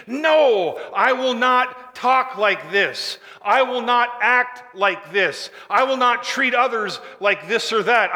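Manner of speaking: firm, measured declaration, each line slowed; resolute vow. Pretend. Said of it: "We must say absolutely".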